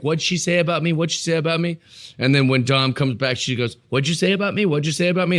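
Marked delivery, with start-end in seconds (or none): 0.0-1.8 lightly imitated snotty brat, pitched up; mock a pestering little brat in a raised pitch. Host imitating a wrestler demanding to know, snotty brat. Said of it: "she gets to look like the snotty little brat". 3.9-5.4 lightly cartoony, higher-pitched pestering; cartoony brat. Host imitating the wrestler confronting Dom, cartoony brat. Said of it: "kinda cartoony and funny".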